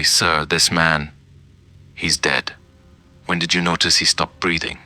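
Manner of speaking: slow, careful words, the first ones drawn out; slowly. Retold or imitated. Paramedic telling the old man the patient is dead, slowly. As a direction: break the news gently and slowly. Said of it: "I said to him slowly".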